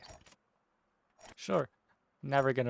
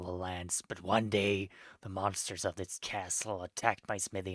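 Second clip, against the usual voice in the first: lightly lowered blacksmith voice; a hint of a gruff old smith; 4 semitones lower than usual. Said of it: "What's a good blacksmith voice?".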